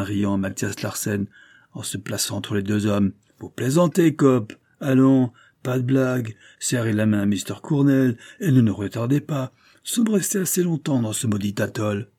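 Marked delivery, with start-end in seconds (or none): 3.4-12.1 higher, louder, impatient; dismissive captain. Acted. Captain telling the detective to stop joking, impatient. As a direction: laugh off the detective's nonsense.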